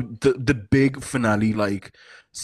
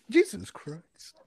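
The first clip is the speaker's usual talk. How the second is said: slow high drawl; 9 semitones higher, 3 dB quieter, slower than usual. Acted. Sung-out echo, slow high.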